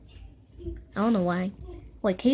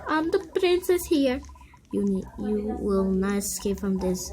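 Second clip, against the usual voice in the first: villain princess. Acted. Kid playing a villain princess, haughty. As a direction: lord it over them as a princess.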